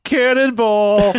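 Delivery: long drawn-out laughing yell; yelled cannonball. Retold or imitated. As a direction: holler it while jumping in. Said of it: "they go".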